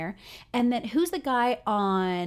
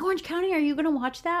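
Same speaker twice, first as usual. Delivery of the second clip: higher-pitched mock husband voice; imitating husband; 8 semitones higher, faster than usual. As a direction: voice the husband's question, pitched well up. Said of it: "As soon as my husband saw it out, he's like".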